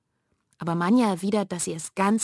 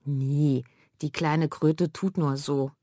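snorting scorn; 2 semitones lower, slower than usual. Acted. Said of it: "Manja schnaubt".

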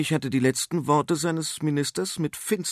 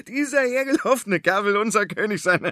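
higher, louder mocking jeer; scornful jeer; 10 semitones higher, 6 dB louder, faster than usual. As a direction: laugh him to scorn. Farmer mocks the king. (höhnischer Ausruf)

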